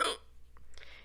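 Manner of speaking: quick quiet gasp; small startled intake of breath; mock gasp. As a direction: suck in air in retold shock. Acting out shock at masked people.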